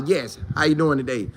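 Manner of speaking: mimicking a teammate's polite interview voice; proper interview voice. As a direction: lightly imitate his polished media talk. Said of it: "videos of this man talking".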